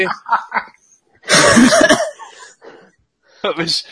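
ordinary delivery

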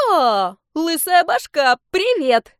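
a playful little dragon greeting a friend; cheerful baby dragon. Acted. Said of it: "весёлый голос".

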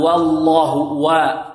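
والله with the waw slowly stretched, neither heavy nor tilted; wallah demo, drawn out. Shown as a demonstration. Teacher drilling the waw for students, slow. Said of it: "لا تفخيم ولا إمالة".

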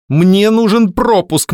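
high, loud, slow demand. A narrator's reading. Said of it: "повысив голос".

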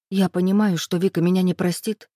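usual speaking voice

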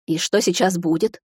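ordinary delivery, nothing marked

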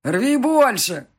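loud, drawn-out egging on; guffawing men's cheer. A narrator's reading. Guests urging groom to pick flowers, boisterous. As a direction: shout it high and slow like a rowdy guest. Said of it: "гоготали мужики".

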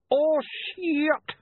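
high, loud startled cry; sudden high shout of alarm; shocked yelp. Acted. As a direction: blurt it out as the flash goes off. Camera flash destroys vampire.

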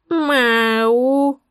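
высокое кошачье «мяу»; мяукни, отвлекая внимание; мяуканье. A narrator's reading. Кошка мяукает для отвлечения. (кошачье «мяу»)

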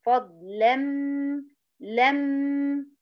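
فضلًا slowly, open la closing on a held m; fatha before nasal. Shown as a demonstration. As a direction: hold the hum of لم after a clear a. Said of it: "وهي الفتحة".

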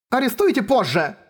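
high, gasped-out protest; breathless urgency. Acted. Girl brushing off the arrest, high breathless urgency. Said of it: "выдохнула девушка".

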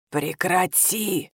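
cold, slow, soft command from under the bed. Acted. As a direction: stretch it out icily, low and creepy. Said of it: "Холодный голос из-под кровати".

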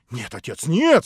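Alyosha cries out. Acted. Son crying out to his father, sudden protest. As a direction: burst out in protest. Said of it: "вскричал Алёша".

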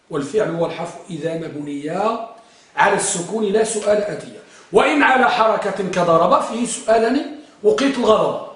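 measured, rhythmic recital of a teaching poem; verse recitation. Shown as a demonstration. Teacher reciting grammar verse to students, measured recitation. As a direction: recite the couplets line by line, stretching rhymes.

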